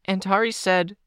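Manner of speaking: put-on high-pitched, piping child's interjection. A narrator's reading. Kenzie cuts in to the group, piping high. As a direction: pipe up in a high voice. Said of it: "Kenzie piped up".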